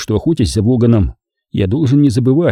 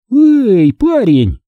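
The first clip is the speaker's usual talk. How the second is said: high, louder indignant call; fierce protest; 13 semitones higher, 5 dB louder, much slower than usual. A narrator's reading. Woman rebuffs a man patting her knee, fierce. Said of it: "Лайза свирепо натянула на колени юбку".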